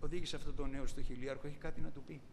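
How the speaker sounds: mild, serene Paul asking a favour; peaceful request. Retold or imitated. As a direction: ask it with total inner peace. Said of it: "την ειρήνη του Παύλου".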